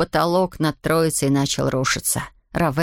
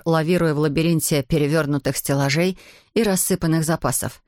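ordinary delivery, nothing marked

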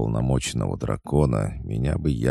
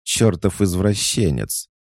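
high, outraged insult; furious high shriek; indignant shout; 9 semitones higher, 5 dB louder than usual. Acted. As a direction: hurl it at him in disgust. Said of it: "выдохнула она".

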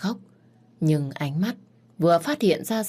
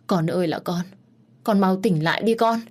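frightened mother; 3 semitones higher than usual. Acted. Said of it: "sợ đến phát khóc".

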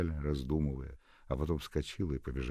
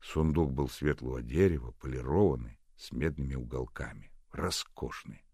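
ordinary delivery, nothing marked

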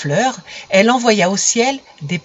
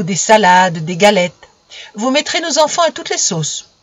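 appeased sun. Acted. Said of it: "tout à fait apaisé".

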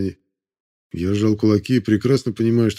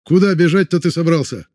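high, loud and insistent; shouting over him; 7 semitones higher, 3 dB louder than usual. A narrator's reading. Vorontsov arguing with the crowd, loud shout. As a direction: shout down the other man. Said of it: "постарался перекричать его Воронцов".

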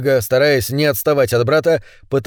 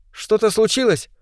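put-on worried young woman; 8 semitones higher than usual. Alina asks worriedly.

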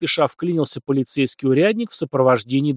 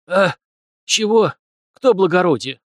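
wheezy dazed rasp; 5 semitones higher, 4 dB louder than usual. A narrator's reading. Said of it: "просипел толстяк".

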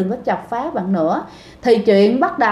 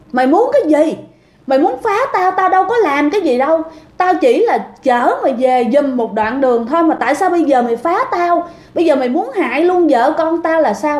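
raised, higher angry shouting at the ghost's photo; retold angry yelling; 4 semitones higher than usual. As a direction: confront her furiously, voice pitched up. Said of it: "Bạn la quá trời các bạn". (quát lên giận dữ, giọng cao)

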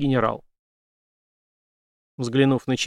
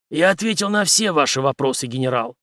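ordinary delivery

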